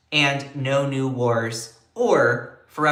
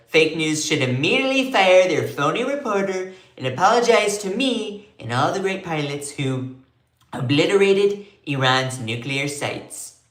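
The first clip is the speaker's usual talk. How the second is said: Trump voice; 3 semitones higher than usual. Retold or imitated. Host reads Trump's attack on reporters in his voice. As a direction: demand the apology like Trump. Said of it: "I can do a good Trump".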